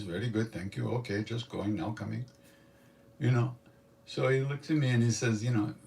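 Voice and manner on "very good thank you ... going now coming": imitated Hindi-English in short set phrases; lightly put-on Indian English, tailing off softer. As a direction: recite stock phrases in Hindi-flavored English. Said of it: "only Hindi, English like this".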